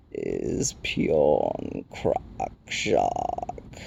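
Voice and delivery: very low, very slow rock creature; crackling Rock Chewer. A narrator's reading. Stone giant announcing a newcomer, deep slow crackle. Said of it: "the Rock Chewer crackled".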